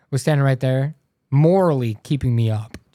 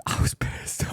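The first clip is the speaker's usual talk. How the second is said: laughing; 6 dB quieter, slower than usual. Real, not acted. Laughing through story.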